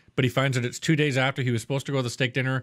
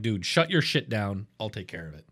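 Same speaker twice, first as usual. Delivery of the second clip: calm and collected; 5 semitones lower, 3 dB quieter than usual. Retold or imitated. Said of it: "calm and collected".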